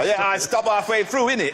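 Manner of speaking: a light mock street accent, dropping the tag innit. Panellist mocks host's accent in a light street voice. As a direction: tease the host by echoing him in a street accent. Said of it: "You've gone all street now".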